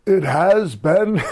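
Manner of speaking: slow, high, loud announcer boom; hammed-up arena announcer; ring announcer. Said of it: "you hear Howard Finkel go".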